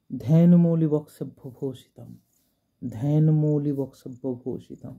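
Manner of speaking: বক্সেভ্য with a clear "ks", "boksebbho"; demonstrated pronunciation. Shown as a demonstration. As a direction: recite carefully, sounding the s in বক্সেভ্য. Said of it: "এইখানটাও কিন্তু same".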